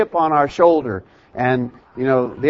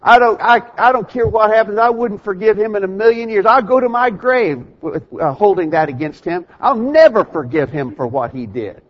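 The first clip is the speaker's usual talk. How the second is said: stubborn grudge quote; 6 semitones higher than usual. Retold or imitated. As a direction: play the grudge-holder who will never let it go. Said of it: "people's expression of".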